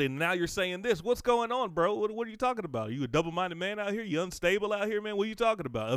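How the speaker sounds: mock challenger. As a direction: play the skeptic calling him out. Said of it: "Elijah, you just said".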